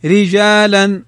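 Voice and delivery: slow رجالا with a light, thin r. Shown as a demonstration. Teacher models رجالا for the rule, thin ra. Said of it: "رققت نحو".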